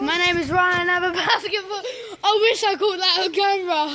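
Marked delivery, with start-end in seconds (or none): 2.2-4.0 laughing. Real, not acted. Laughing after brother fell.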